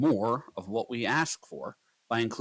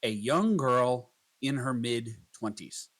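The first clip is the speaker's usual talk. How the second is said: slow prompt dictation; slower than usual. Shown as a demonstration. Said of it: "try this prompt again".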